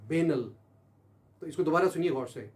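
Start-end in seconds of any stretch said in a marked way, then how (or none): 0.1-0.5 "बेनल" said as bee-nul, stress on the first syllable; American pronunciation. Shown as a demonstration. Teacher contrasts the American way of saying "बेनल". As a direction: give "बेनल" the American sound. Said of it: "American इसको बोलते हैं".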